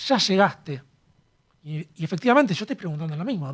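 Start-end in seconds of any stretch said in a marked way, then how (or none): 0.1-0.8 "¿Ya llegaste?" with a touch of anxiety on "ya"; anxious question. Shown as a demonstration. A philosopher shows the anxious way to ask a friend, lightly worried. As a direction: lean into "ya" as if you've been waiting. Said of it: "otra forma de preguntar sería".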